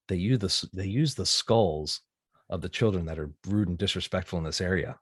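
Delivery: lightly voiced sinister dad, low; low, measured teasing of a kid; mock-grave dark secret. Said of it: "then Dark Dad came out".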